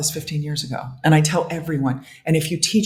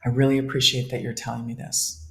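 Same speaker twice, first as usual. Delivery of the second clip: tender self-talk; 4 semitones lower, 7 dB quieter than usual. Shown as a demonstration. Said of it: "The first one is".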